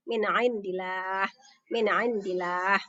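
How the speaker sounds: "indillah" begun with a distinct throat ain after Min; long final a in "indillah"; clear ain. Shown as a demonstration. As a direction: recite "Min indillah" with an unhummed n. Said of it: "Ainnya jelas ya".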